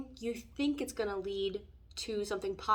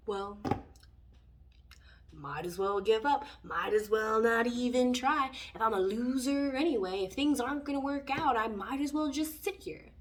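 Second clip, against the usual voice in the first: defeated self-talk; 4 dB louder than usual. Retold or imitated. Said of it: "And then I just go".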